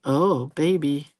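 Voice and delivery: put-on slow, drawn-out dreamy "Oh, baby"; swooning coo. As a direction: melt at the sight of a man with a baby. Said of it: "you're like".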